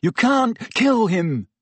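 high, urgent protest; urgent breathless appeal. A narrator's reading. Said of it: "he said breathlessly".

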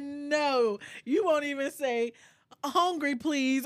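scolding. Retold or imitated. Scolding toddler, retold.

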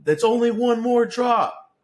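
high, drawn-out mock yell; imitated yelling. Son mimics mom yelling during the ride's drops, high drawn-out yell.

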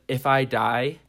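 solemn mock poem with measured pauses; poem recital. Reading own Instagram poem, mock-earnest recital. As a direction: recite it line by line, leaving gaps. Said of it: "one of the poems I wrote is".

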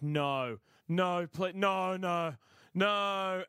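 mock horror of bystanders; dismayed onlookers. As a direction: imitate rising dismayed protests. Onlookers' horrified reaction acted.

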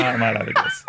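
laughing falsetto marvel. Real, not acted. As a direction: gush it through a laugh. Reacting to weird product.

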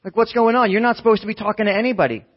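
mock yell at someone breaking rules; retold yelling. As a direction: call it out in alarm, high and loud. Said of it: "they start yelling".

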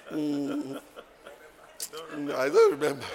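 high, amused mock pondering; chuckling self-quote; laughing retelling. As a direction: act out forgetting, through laughter. Laughingly retells hospital exchange.

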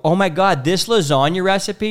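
playful impression of an excited wife; mock excited wife.

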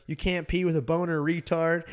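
high, fairly loud mock heckle; retold classroom yelling. One kid heckling another across class, retold yelling. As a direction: imitate a kid calling across the room. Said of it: "start fucking yelling at each other".

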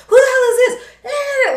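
laughing disbelief. Acted. The family reacts to the sweater, laughing loudly. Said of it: "everybody's like".

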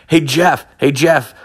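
sing-song taunt to needle him; taunting call. Retold or imitated. Taunting the buddy in chat.

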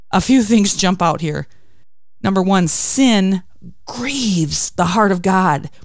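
ordinary talk

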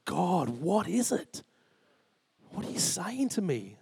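retold anguished plea. Retelling anguish after a nightmare.

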